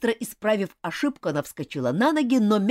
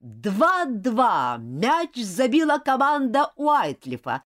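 slow louder score call; referee announcing; 4 semitones higher, 4 dB louder, much slower than usual. Acted. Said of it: "Слышится голос судьи".

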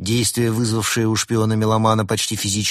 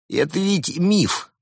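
much higher, slow protest; astonished; 9 semitones higher, slower than usual. A narrator's reading. Host thinks guests are joking about the yeti, astonished. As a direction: object in disbelief, pitch leaping up. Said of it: "удивился Марио".

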